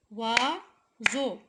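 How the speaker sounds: "Oiseau" split as OI, pause, SEAU; syllable by syllable. Shown as a demonstration. Teacher counting syllables for pupils, "Oiseau" chopped in two. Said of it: "deux syllabes".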